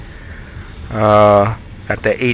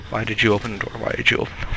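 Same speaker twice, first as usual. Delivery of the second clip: scared whisper; 5 dB quieter, faster than usual. Real, not acted. Hiding, monster close by.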